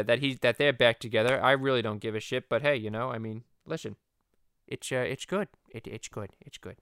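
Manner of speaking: low rambling cartoon dad voice; Peter Griffin. Peter commenting on the reunited couple, cartoon dad voice. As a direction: mumble along like a cartoon oaf, fading at the end. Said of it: "the Stewie and Peter podcast".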